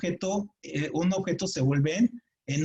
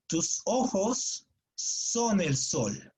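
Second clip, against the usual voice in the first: lento y declamado; 2 semitones higher, much slower than usual. Shown as a demonstration. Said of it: "vean así la idea".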